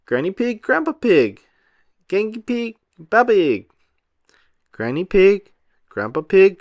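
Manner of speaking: high, loud happy calling; excited cry. A narrator's reading. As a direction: call out to grandparents gladly. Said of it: "cried Peppa".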